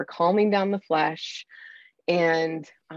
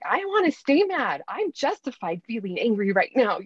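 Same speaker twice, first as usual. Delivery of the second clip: mock stubborn; 4 semitones higher than usual. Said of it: "sometimes I'm even like".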